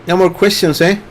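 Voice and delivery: light Canadian lilt; Canadian accent. Pretend. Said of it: "that's my Canadian accent".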